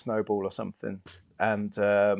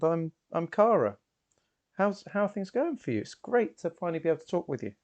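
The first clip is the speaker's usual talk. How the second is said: higher-pitched, friendly approach; lightly voiced, higher greeting to a near stranger; Cara introducing herself; 4 semitones higher than usual. Cara greets Leah for a first chat, higher friendly voice.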